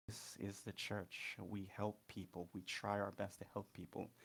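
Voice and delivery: slightly weary, slowed at the start; tired mother. Acted. Tired mother explains the church's duty to her son, mildly weary. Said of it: "really tired".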